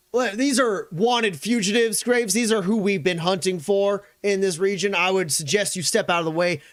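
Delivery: forceful military colonel's warning; McGarrett. Acted. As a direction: press them hard to stand aside. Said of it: "McGarrett goes".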